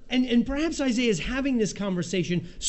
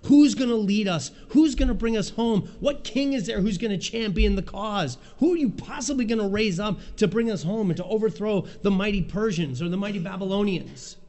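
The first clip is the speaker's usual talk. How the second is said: Isaiah pleading; 2 semitones higher than usual. Retold or imitated. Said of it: "And Isaiah says".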